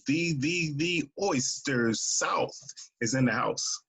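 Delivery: lightly put-on DJ announcing a guest. Shown as a demonstration. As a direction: stretch it out like a DJ hyping the house. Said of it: "That's my D J voice".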